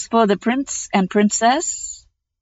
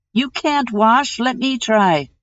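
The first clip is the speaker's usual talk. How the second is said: put-on old hag voice; 5 semitones higher than usual. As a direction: sneer it like an old troll hag. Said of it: "said the old hag, her mother".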